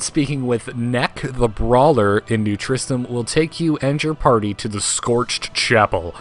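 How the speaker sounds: lightly put-on radio announcer read; slow, deliberate announcer delivery. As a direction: read the patch notes like a radio announcer, drawing out the big phrases. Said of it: "You're really working on your radio announcer".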